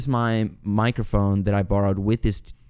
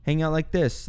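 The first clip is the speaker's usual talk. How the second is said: calming a friend down; 4 semitones higher, 4 dB quieter than usual. Retold or imitated. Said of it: "I'm trying to calm him down".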